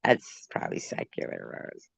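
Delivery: voiceless, very soft, laughed-out words; too winded by laughter to voice it; breathless with laughter. Real, not acted. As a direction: squeeze the words out mid laughing fit. Helpless laughing fit, voice gone.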